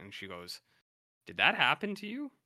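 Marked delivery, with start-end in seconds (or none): 1.3-2.3 a higher, louder mock woman's voice asking gently; voicing the woman. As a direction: lightly act out her concerned question. Voicing the sex worker.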